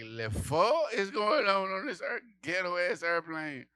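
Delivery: mock French; mock French cursing. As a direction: curse with fake French class. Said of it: "That's French if you wanna curse".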